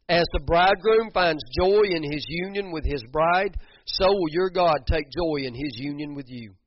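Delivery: loud, high preaching of the verse; fervent full-voiced proclamation; proclaimed loudly. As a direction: call the verse out to the whole room. Verse proclaimed, then repeated softly.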